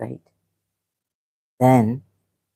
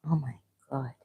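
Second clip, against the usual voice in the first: barely audible, breath taken away; stunned hush; 3 semitones lower, 17 dB quieter, faster than usual. Real, not acted. Streamer reading a horrifying chat comment, stunned near-silent. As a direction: let it fall out, near silent, in shock. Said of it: "Sorry, just silence for a second".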